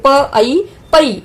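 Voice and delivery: प, then ऐ, then joined पै, slowly; syllable blending. Shown as a demonstration. Teacher showing how to read it, slow blending of प ऐ पै. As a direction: sound out प ऐ पै in separate beats. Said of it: "हम इसको कैसे पढ़ेंगे".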